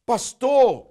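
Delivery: put-on high, loud cry of a boy; boy shouting pastor; child's shout. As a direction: call out to the pastor.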